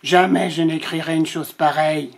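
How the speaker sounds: sighing lion. Acted. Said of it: "soupira le lion".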